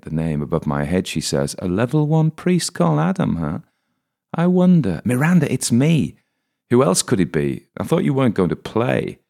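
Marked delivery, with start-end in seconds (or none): 1.6-9.2 much higher, bright teasing surprise; young woman thrilled to find her friend; delighted young woman. Acted. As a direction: recognise a friend and tease him. Miranda recognises her friend.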